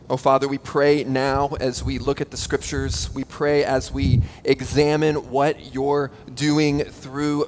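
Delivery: measured, hushed public prayer. Real, not acted. Pastor praying before reading the Scriptures, prayerful. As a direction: pray earnestly on behalf of the listeners.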